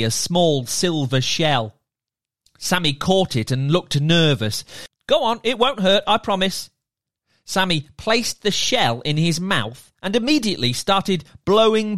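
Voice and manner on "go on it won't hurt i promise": reassuring merman. Acted. Merman reassures nervous Sammy.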